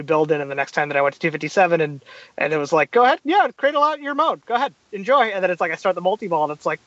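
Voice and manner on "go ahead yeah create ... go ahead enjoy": higher, encouraging mock invitation; lightly voiced inviting game. Game urging player to enjoy the mode, lightly mock inviting.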